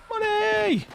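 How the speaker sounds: high, gleeful yell of money; excited shout. Retold or imitated. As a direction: belt it out like a win. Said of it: "but I said, like".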